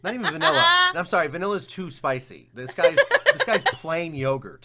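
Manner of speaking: loud, high laughing put-down. Real, not acted. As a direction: laugh through the joke. Laughing while mocking the guest.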